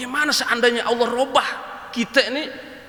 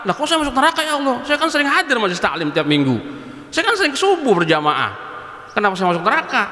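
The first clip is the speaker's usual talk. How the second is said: mock protest. Man protesting his place in hell.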